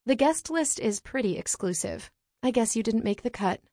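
icy and superior, chin lifted; Ice Queen voice. Acted. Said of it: "in my coolest Ice Queen voice".

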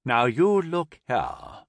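slow, blustering indignation; erupting. A narrator's reading. Lieutenant to the laughing soldier, erupting indignantly. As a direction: draw it out as you erupt in indignation. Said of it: "Palmer erupted".

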